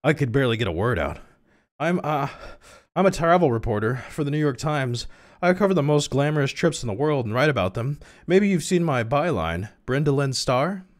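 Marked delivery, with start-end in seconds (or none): 1.8-10.8 high, lilting heroine voice; high-pitched travel reporter dialogue. Acted. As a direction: introduce yourself in a raised, put-on voice. Voices the reporter heroine introducing herself.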